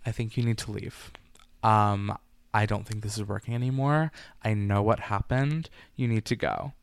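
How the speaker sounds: soft, low, even calm; quietly firm, ending the marriage. Retold or imitated. Wife calmly telling her husband to leave. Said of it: "in the calmest tone".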